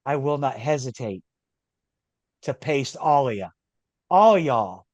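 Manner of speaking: put-on casual Scottish accent threat; lightly Scottish, laid-back menace. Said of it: "your Scottish accent".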